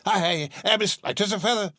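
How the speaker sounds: put-on high, fast, laughing old man; giddy laughing Scrooge. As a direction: burst with giddy joy.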